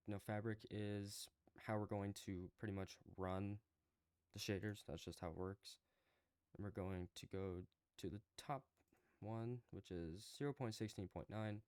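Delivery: shaky voice from the cold. Real, not acted. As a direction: voice trembling with cold. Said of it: "if my voice sounds a little shaky".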